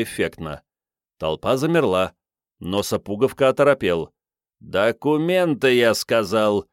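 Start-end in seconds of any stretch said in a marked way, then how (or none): 4.6-6.7 steely voice. Acted. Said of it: "стальным голосом повторил".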